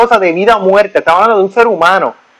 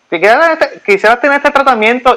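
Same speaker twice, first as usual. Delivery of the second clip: higher, lightly voiced sales pitch; salesy dental assistant; 4 semitones higher than usual. Hygienist pushing a treatment on him, higher coaxing voice. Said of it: "dice, este".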